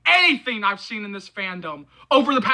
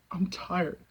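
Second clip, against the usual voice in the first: much softer, drained of all force; exhausted; 3 semitones lower, 11 dB quieter than usual. Real, not acted. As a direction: let it fall away, almost gone.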